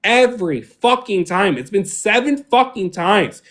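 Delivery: high, heated, swearing tirade; angry rant. Real, not acted. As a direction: pour out years of grievance at her. Furious rant at Melanie.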